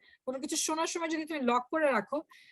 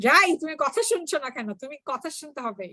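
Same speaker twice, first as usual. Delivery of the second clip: scolding, pointing finger; 2 semitones higher, much faster than usual. Shown as a demonstration. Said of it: "তুমি যদি আঙ্গুল দিয়ে কথা বলো".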